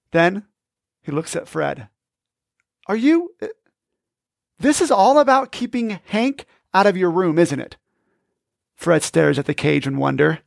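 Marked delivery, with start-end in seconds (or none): 2.9-7.8 suspicious. Acted. Tony suspicious realization.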